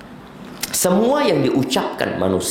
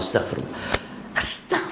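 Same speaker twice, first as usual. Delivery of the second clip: mumbled zikir; 3 semitones lower, 7 dB quieter, much faster than usual. Retold or imitated. Mocking empty zikir mumbled.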